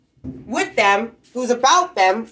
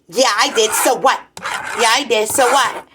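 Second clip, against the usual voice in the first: smart-ass retort; 2 semitones higher than usual. Retold or imitated. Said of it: "they get this smart ass comment".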